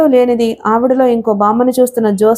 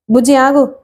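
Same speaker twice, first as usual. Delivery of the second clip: commanding call. A narrator's reading. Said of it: "ఆజ్ఞాపించినట్లే పిలిచింది".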